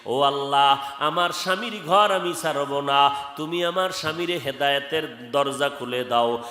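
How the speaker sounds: rhythmic, chanted exhortation; melodic waz preaching. Real, not acted. Preacher exhorting congregation about wives and husbands, chanted preaching. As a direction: preach in singsong with lengthened endings.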